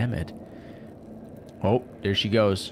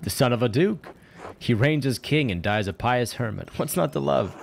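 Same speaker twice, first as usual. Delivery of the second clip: lightly voiced eager game character; lively retelling of a favourite tale; lightly acted, lifted voice; storybook-lover character; 4 semitones higher than usual. Voices the game's dialogue.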